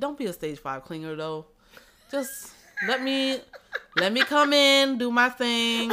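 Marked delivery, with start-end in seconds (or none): 2.1-5.9 high, loud, laughing appeal; laughing plea. Real, not acted. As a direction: laugh while asking for space.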